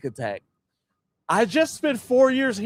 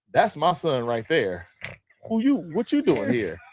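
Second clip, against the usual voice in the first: suspicious mother; 5 semitones lower than usual. Retold or imitated. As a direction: lightly voice a mother sizing up a stranger. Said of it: "this black lady comes to me".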